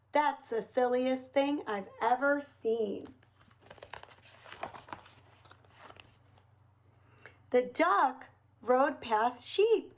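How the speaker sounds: put-on lively storybook reading for little kids; reading to children. A narrator's reading. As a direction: read it like a picture book for children. Reads picture book to children.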